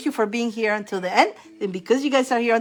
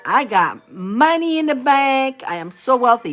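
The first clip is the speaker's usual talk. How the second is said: confident affirmation; 2 semitones higher than usual. Shown as a demonstration. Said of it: "if you wanna add".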